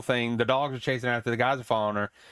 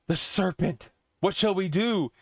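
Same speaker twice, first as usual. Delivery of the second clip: mock alarm; 4 semitones higher, slower than usual. Vikings sight the sea serpent.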